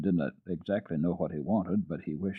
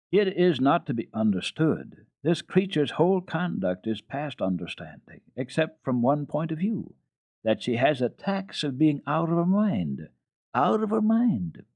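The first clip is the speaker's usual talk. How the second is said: higher, louder, shocked governess; 7 semitones higher, 3 dB louder than usual. Acted. Governess declaring the child mad, higher and louder. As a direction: rise to a horrified peak.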